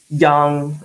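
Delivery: put-on young said slowly and firmly on its own; emphasis on young; stress on young. Shown as a demonstration. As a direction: lean hard on the word young. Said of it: "emphasis on the word young".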